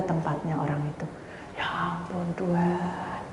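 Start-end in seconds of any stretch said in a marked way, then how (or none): 1.6-3.2 slow, drawn-out dismay; long-drawn exclamation of exasperation; exasperated sigh-like plea. Retold or imitated. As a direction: stretch it out wearily to God. Exasperation at friend's working.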